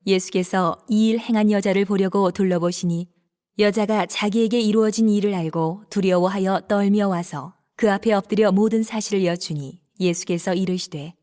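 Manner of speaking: ordinary talk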